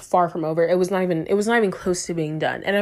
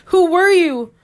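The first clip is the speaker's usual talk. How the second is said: high laughing question; laughing disbelief; 8 semitones higher, 6 dB louder, slower than usual. Real, not acted. Vlogger reading old DMs, laughing in disbelief. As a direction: ask it through a laugh.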